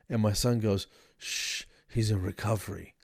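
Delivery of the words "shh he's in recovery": low, softer hushed reply; hushing. Retold or imitated. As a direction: shush them protectively, keeping it down. Son hushing dad on the phone.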